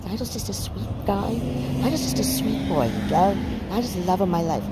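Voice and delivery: lightly voiced gentle cat; Nigel's cat voice. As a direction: owner giving the cat Nigel a mild, soft sweet-guy voice. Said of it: "Nigel's like this".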